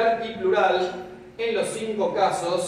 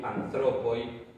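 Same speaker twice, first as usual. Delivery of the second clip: slowed-out demo; 5 semitones lower, 3 dB quieter, much slower than usual. Shown as a demonstration. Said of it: "La lógica indicaría que acá debería ser".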